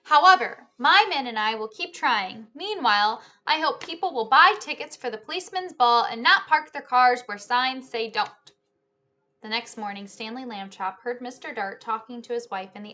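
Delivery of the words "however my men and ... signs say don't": booming police chief. Acted. Police chief's statement read aloud.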